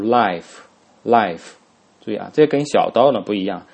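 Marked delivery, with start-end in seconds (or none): 0.0-1.5 life said slowly with a clear L; careful "life" twice; teacher modelling "life"; model pronunciation. Shown as a demonstration. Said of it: "读".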